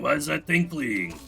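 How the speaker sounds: annoying gamer voice easing off; put-on irritating gamer voice. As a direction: keep the put-on nerdy gamer voice while distracted. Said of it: "I don't know why I gave him this voice".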